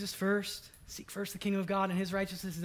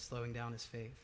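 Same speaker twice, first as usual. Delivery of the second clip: soft repeat; 6 semitones lower, 10 dB quieter than usual. Shown as a demonstration. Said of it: "those four words".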